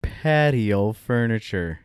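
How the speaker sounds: telling a dad joke. Acted. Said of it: "Dad joke incoming".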